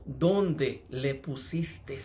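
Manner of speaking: very slow, heavy sighing question; sighing grief. Acted. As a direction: let the words out on a grieving sigh, very slowly. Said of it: "lanzó ese suspiro cuando él dijo".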